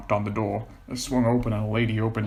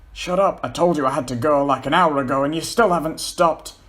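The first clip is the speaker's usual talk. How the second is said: annoyed; 5 semitones higher, 5 dB louder than usual. Acted. Paul snaps at teasing John.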